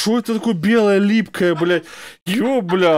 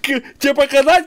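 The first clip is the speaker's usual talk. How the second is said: laughing; 8 semitones higher than usual. Real, not acted. Still laughing.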